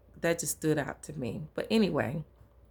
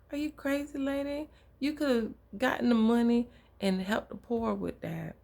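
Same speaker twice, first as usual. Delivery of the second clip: a scandalised Judas scolding the lady, pitched way up; indignant Judas; 8 semitones higher than usual. Retold or imitated. Judas scolding Mary over the wasted oil, high and outraged. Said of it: "And Judas was like".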